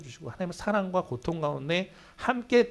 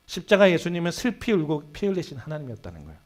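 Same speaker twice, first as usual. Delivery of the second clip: ordinary talk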